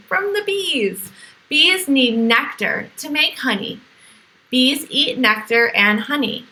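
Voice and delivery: put-on bright, lively storybook read for kids; reading to children. A narrator's reading. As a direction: read it like a picture book to little ones. Reads picture book to children.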